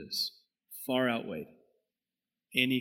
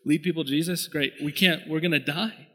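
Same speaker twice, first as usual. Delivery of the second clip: raised, pleading cry to God; desperate raised prayer, near shouting; 3 semitones higher, 4 dB louder than usual. Retold or imitated. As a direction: beg God out loud in a panic. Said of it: "Like, that was my prayer".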